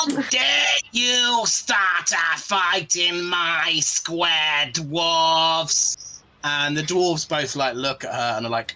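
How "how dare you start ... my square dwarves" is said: very slow, giant toad creature voice. Narrator voicing a character scolding two dwarves for a fight: her character voice. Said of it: "let me just get the voice right".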